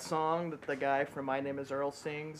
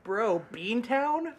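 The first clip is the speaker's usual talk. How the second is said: higher-pitched mock Boston accent; Boston bit; 6 semitones higher than usual. Boston local defends his town to visitors, mock Boston accent. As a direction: play an incredulous Boston local in broad accent. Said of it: "this fucking Boston bit".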